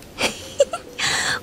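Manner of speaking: soft, airy titter; sly, amused snicker; amused giggle. Acted. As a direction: let a teasing little laugh slip. Relishing what he will do.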